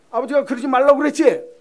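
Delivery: high, loud scolding shout; angry father. Acted. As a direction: tell off a disobedient son loudly. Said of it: "아버지가 좀 화가 났어요".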